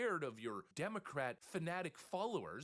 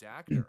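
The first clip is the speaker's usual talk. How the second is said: actor punched hard and much louder; stress on actor; 10 dB louder than usual. Shown as a demonstration. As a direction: hit "actor." like a slap at the end. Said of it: "Emphasis on the word actor".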